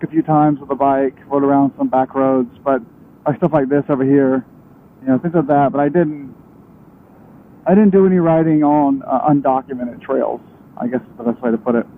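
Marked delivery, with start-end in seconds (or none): 5.0-11.9 muffled inside a helmet; talking under a closed helmet. Real, not acted. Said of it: "my helmet's on".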